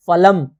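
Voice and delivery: फलम said slowly and distinctly, each syllable full; clear Sanskrit pronunciation. Shown as a demonstration. Teacher modelling correct pronunciation for students, a clear demonstration. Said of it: "सही शुद्ध उच्चारण करना है".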